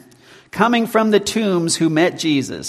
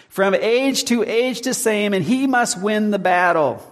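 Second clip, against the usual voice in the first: solemn recited hymn verse; 4 semitones higher than usual. Acted. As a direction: lift each line of the hymn deliberately. Reciting Luther hymn lyrics.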